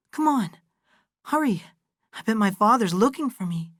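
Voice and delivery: put-on a girl suddenly anxious to get home; urgent hurry. Abra hurrying home at sunset.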